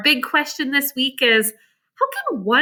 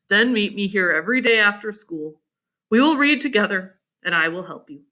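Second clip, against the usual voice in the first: Abe; 5 semitones lower than usual. Acted. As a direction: lower kind boy's voice. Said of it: "he said".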